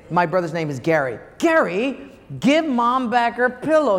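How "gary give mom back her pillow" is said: higher, innocent tattling; sly kid voice. Retold or imitated. Boy blaming his brother from the back seat, higher and innocent. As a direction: pretend to be the good son. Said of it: "And then I would say".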